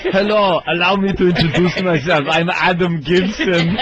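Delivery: mock Austrian action-star introduction; German accent. Action hero introducing himself to the audience, German accent. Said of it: "With that awful German accent".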